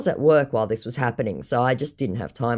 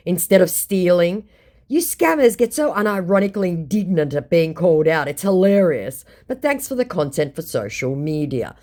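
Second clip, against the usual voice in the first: scornful reply; 4 semitones higher, 3 dB louder than usual. Retold or imitated. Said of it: "I said".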